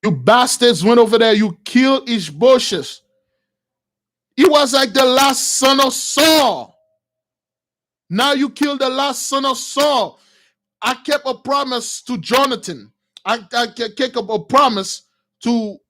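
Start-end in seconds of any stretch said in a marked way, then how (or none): 0.0-10.2 scornful rebuke. Retold or imitated. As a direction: spit out the insult with contempt. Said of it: "And David said".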